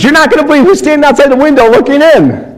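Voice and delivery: excited producer. Retold or imitated. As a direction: relay the frantic producer's excitement. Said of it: "my producer's freaking out".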